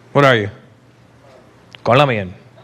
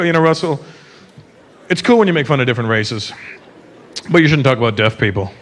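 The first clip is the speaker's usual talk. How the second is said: low, lightly mocked lecturing tone; a hint of a preachy critic; scolding audience member; 7 semitones lower than usual. Offended audience member scolding Russell, low mock preachy. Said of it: "somebody got mad at me".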